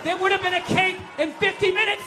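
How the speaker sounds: hammed-up indignant rant; mock outrage. Comic as cake baker yelling at the pan thief, mock outrage. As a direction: act a wronged baker, shouting. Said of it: "It's like".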